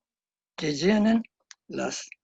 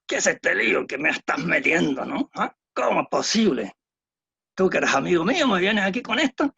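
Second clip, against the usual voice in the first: reproachful. Acted. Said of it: "Uno es un sentido de reproche".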